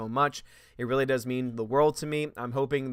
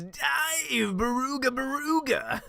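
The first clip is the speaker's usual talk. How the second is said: much higher, odd put-on voice for "Dive, Baruga"; squeaky chat voice; 10 semitones higher, slower than usual. Streamer reads viewer Peabody's chat in a high squeaky voice.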